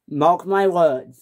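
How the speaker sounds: slow, steady, firm; calm warning. Acted. Edward calmly warning James. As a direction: lay it down calmly. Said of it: "said Edward".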